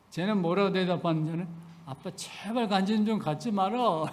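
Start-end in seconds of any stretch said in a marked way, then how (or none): 1.9-4.1 laughing mock daughter. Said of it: "이렇게 말을 해".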